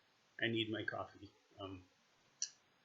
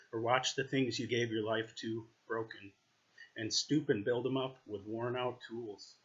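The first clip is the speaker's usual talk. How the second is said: measured reading aloud, line by line; sincere poetry reading with deliberate phrasing; poem recitation. Real, not acted. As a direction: read the poem evenly, pausing after each phrase. Reads a poem aloud to viewers.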